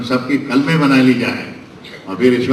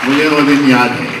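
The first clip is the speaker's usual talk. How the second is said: मुझे वो दिन याद है said out louder, falling on वो; declaimed memory; 4 dB louder than usual. Real, not acted. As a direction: proclaim it to the hall. Orator repeats memory line. (ज़ोर से याद करते हुए)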